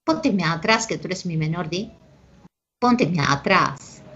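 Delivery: lightly imitated charapa accent from Peru; a hint of charapa lilt on the quote. Teacher quoting charapas people mock, lightly imitated charapa accent. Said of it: "los charapas que dicen".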